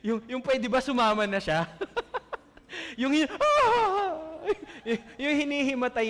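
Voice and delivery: laughing loudly while mimicking the widow; laughing mockery. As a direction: chuckle through the joke. Mocking widow begging to follow. (tawang panggagaya sa biyuda)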